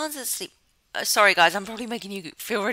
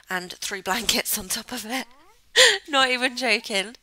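laughing; 3 semitones higher, 6 dB louder than usual. Real, not acted. Laughs at own blanket pile.

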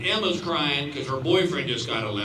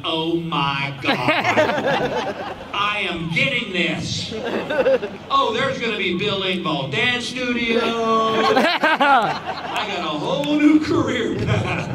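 thrilled; 5 semitones higher, 5 dB louder, slower than usual. Retold or imitated. Thrilled at success.

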